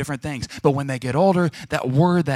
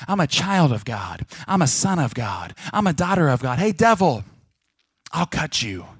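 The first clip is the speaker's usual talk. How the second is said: louder, higher, bold defiance to the devil; defiant declaration; 3 semitones higher, 4 dB louder than usual. Shown as a demonstration. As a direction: stand up and tell the devil off. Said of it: "you need to say".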